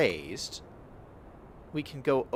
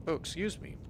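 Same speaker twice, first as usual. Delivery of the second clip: talking with the hiccups; 4 semitones higher, 6 dB quieter, faster than usual. Real, not acted. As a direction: hiccup between words. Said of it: "I got the hiccups".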